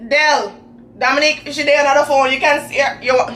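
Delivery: lightly voiced confused grandpa; a hint of old man fumbling with FaceTime; imitating grandpa. Grandfather struggling with FaceTime on the phone, lightly voiced confused old man. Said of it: "He goes".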